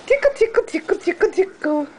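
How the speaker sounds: high playful tickle chant; giggly tickle attack. Real, not acted. Mother tickling baby.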